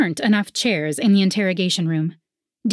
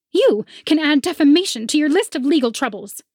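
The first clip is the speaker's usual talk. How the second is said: haughty rival; 8 semitones higher, 4 dB louder than usual. A narrator's reading. Rival threatens.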